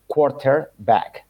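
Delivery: quarterback con la R pronunciada, lento. Shown as a demonstration. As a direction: di quarterback a la británica estándar, despacio. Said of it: "se debería pronunciar". (pronunciación recibida de quarterback)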